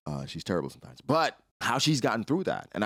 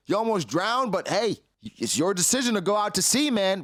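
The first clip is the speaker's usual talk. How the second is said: building from plain to a high, loud scolding; pissed off, telling a father what his kid needs; mock rant that climbs higher and louder; lecturing Harold; 6 semitones higher, 4 dB louder than usual. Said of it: "'cause I'm like".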